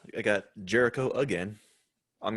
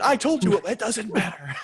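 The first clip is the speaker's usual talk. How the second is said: much higher, louder laughing Rock impression; mock Rock dismissal; 12 semitones higher, 4 dB louder than usual. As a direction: laugh it off as The Rock brushing him aside. Rock voiced dismissing Jericho.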